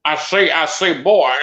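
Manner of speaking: lightly hammed cartoon rooster voice; Foghorn Leghorn. Quoting the cartoon rooster for his friends, lightly mock voiced. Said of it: "You went straight Foghorn fucking Leghorn".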